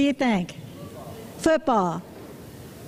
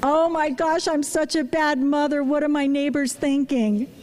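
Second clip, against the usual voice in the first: anxious inner voice; 2 semitones higher than usual. Retold or imitated. Mother hearing her daughter cry, a touch of panic. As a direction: voice the worry in your head. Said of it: "what's going through my head".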